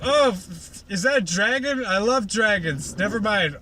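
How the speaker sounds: high, squealing crush on dragons; Fluttershy squealing over Spike the dragon; high gushing delight. Retold or imitated. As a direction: melt into fangirl glee.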